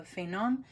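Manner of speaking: "Fénon" said the French way, with a nasal French ending; the French way of saying her maiden name, "Fénon"; French pronunciation. Shown as a demonstration. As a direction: pronounce "Fénon" as in French, stress on the last syllable. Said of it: "which is pronounced".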